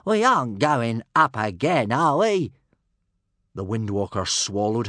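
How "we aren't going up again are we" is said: loud, whining dragon protest; exhausted little dragon's loud whine; moaning. A narrator's reading. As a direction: wail it wearily, rising at the tag question. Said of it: "moaned Toothless".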